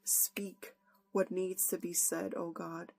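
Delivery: earnest prayer. Acted. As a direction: pray aloud, humbly, to God before the sermon. Opens with a prayer.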